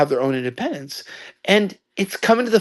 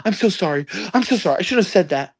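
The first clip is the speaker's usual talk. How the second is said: retold apology; 4 semitones higher than usual. Retold doctor apologising for outburst.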